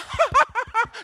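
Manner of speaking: high mock chuckling; high laugh as the joke finally lands; imitated delayed laugh. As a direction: burst into a belated, acted laugh. Acts delayed laugh at home.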